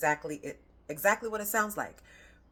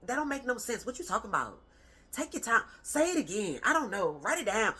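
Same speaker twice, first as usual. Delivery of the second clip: put-on higher, mildly impatient parent brushing the kid off; dismissive parent; 5 semitones higher than usual. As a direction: make the child feel small, lightly voiced. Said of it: "Not from a".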